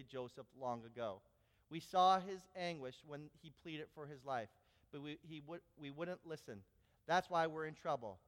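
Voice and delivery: reading Genesis aloud from the pulpit; scripture reading. Acted. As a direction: read the passage to the congregation steadily. Reads scripture passage aloud.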